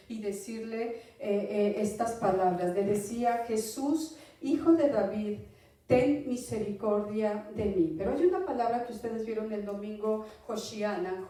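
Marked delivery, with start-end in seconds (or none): 3.5-7.9 moderately raised cry for mercy; grito imitado. Retold or imitated. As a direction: call out, building to a louder plea. (clamor imitado, pidiendo misericordia)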